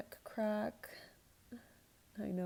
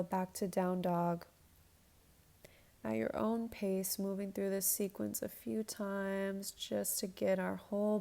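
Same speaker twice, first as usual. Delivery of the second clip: yoga instructor cueing. Acted. Leads a yoga flow.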